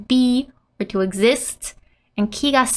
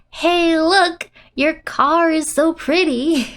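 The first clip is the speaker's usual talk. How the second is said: excited admiring; 6 semitones higher, slower than usual. Acted. Translates friend's admiring call.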